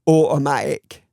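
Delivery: "Automatic" with the T's dropped, Northern English style; Northern English pronunciation. Shown as a demonstration. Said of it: "with my Northern English accent, it'll be pronounced without the T's anyway".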